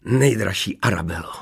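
pleased suitor addressing his dearest; delighted cooing. A narrator's reading. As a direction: coo it with satisfaction. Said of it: "vrkal potěšeně". (potěšené vrkání)

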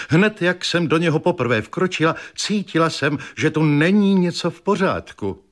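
high, fretful complaining wife; high-pitched fussy wife voice; agitated invalid wife. Acted. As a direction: whine it like a nervous invalid.

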